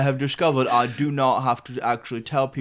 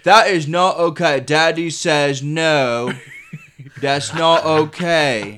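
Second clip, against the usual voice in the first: scolding dad; 3 semitones higher, 5 dB louder, slower than usual. Acted. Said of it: "we're playing Daddy Kid right now".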